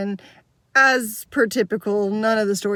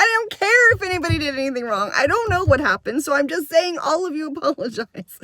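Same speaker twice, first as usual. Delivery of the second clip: higher, insistent retelling of a fed-up teacher; mild exasperation; 5 semitones higher than usual. Retold or imitated. Teacher telling upset girl all must apologize, exasperated. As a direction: lay down the rule with exasperated emphasis.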